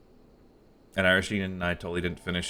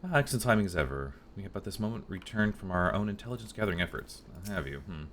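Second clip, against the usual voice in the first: prim scholar; 3 semitones higher than usual. Acted. Voices refined NPC.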